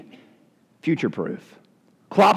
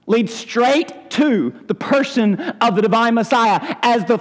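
reading a quote aloud; 3 semitones higher than usual. Acted. Preacher reading a quote to the congregation, measured. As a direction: read it out with weight and reverence. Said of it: "this quote is pulled from".

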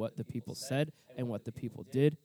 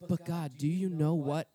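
mock aggrieved protest to God; indignant complaining to God; 4 semitones higher than usual. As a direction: whine at God like he missed the whole story. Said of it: "If your response to God is always".

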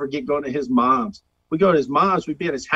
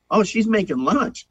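casual reply, lightly voiced; 5 semitones higher than usual. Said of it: "Hip, what's she doing".

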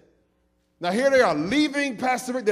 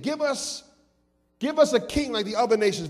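begging for a king, a touch higher; mock pleading crowd; 3 semitones higher than usual. Shown as a demonstration. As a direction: plead it, don't just ask. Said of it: "they pleaded".

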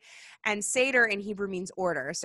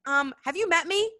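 much higher sassy scolding, slowing at the end; exasperated God; 9 semitones higher, 4 dB louder than usual. Retold or imitated. God scolding doubtful Moses, high and exasperated. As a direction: roll your eyes and tell him to stop. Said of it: "God's like".

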